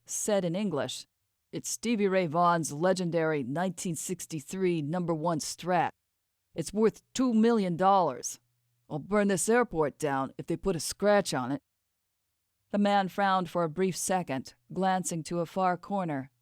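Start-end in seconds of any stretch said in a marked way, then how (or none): 1.5-11.6 words pushed through clenched teeth. Acted. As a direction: talk with jaw locked tight. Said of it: "through clenched teeth".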